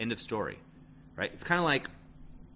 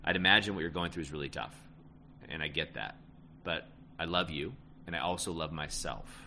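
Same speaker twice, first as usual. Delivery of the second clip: soft validating; 4 semitones lower, 3 dB quieter than usual. Shown as a demonstration. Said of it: "Imagine's my favorite".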